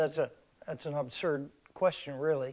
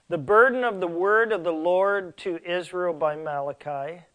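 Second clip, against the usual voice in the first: scripture reading. Acted. Reads scripture aloud from Malachi.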